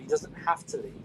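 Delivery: faint voice lost in wind noise; far from mic. Real, not acted. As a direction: speak from far across the room. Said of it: "it sounds like he's far away".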